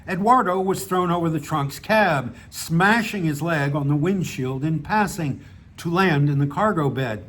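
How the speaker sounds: measured reading of a written story; story narration. A narrator's reading. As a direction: read your short story aloud, pausing between sentences. Reads own story aloud.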